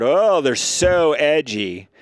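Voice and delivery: sarcastically impressed, stretched out; mock awe. Mocking edgy podcast hosts to a friend, slow sarcasm.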